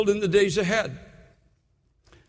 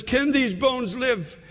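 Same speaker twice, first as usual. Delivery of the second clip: God's question; 3 semitones higher, slower than usual. Retold or imitated. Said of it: "And he says".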